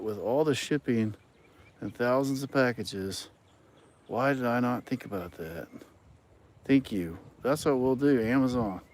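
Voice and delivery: mock amazement at an obvious idea; sarcastic, as if struck by a brilliant idea. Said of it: "That's me being sarcastic".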